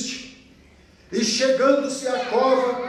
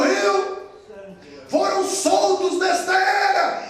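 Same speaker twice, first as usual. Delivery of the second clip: shouted, higher preaching with a rising build; fiery preaching; 3 semitones higher than usual. Acted. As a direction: preach it to the congregation. Preaching at full force.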